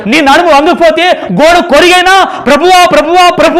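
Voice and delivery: high, loud pleading call to God; desperate cry to the Lord. Retold or imitated. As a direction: cry out "ప్రభువా" like a bent old believer. Old believer crying out to God. (ప్రభువా అని బిగ్గరగా వేడుకోలు)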